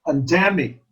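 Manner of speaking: "pandemic" as pan-DEM-ic; second-syllable stress. Shown as a demonstration. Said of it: "the second syllable is accented".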